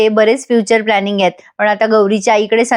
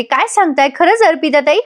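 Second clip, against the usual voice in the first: brighter, higher, delighted reply; happy and pleased; 3 semitones higher than usual. Retold or imitated. Gauri thrilled her sister-in-law liked the cake, happily higher. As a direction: lift the voice with pleasure at the praise. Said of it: "Gauri खुश होऊन म्हणते".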